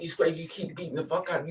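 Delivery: usual speaking voice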